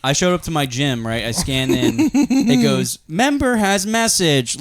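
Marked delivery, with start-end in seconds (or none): 3.1-4.6 flat, slow machine announcement, a bit higher; imitating the gym scanner's snotty robot voice. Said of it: "loud as fuck for everybody here".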